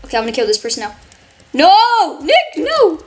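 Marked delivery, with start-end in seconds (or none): 1.5-3.0 loud, high cry of alarm; loud, high no, yelled at Nick; panicked yell. Real, not acted. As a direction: shout in panic as you're attacked.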